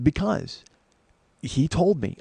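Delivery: retold heated retort. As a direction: retell your heated justification. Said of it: "I'm getting heated".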